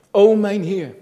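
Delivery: loud, high fervent cry to the Lord; impassioned loud plea; cried out prayer. Retold or imitated. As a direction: cry it out to God from a prison cell. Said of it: "riep hij tot de Heer".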